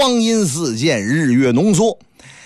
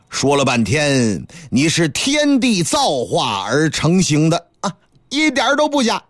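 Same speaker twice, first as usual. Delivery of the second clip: lightly voiced old master. Master agreeing to take Wukong as disciple, lightly voiced elder. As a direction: grant the favour with unhurried dignity.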